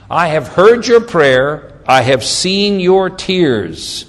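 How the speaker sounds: very slow, weighty proclamation; drawn-out, solemn quotation with big pauses; scripture declamation. Acted. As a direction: deliver God's answer word by word. Repeats God's answer.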